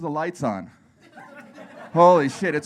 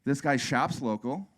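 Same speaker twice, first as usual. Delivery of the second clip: hype-man pitch; 7 semitones higher than usual. Retold or imitated. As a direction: sell it like a game-show host.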